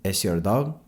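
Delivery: lightly voiced Mexican accent, puzzled. A narrator's reading. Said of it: "he said".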